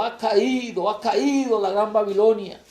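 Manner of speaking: loud, emphatic proclamation; potent angel's cry. Acted. Angel announcing Babylon's fall, potent cry. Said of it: "clamó con voz potente diciendo".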